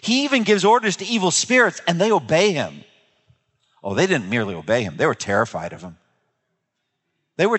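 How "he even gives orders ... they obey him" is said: acted astonishment, climbing higher; a crowd marvelling to one another; amazed. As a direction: build from a puzzled question to high-pitched amazement. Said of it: "people were all so amazed".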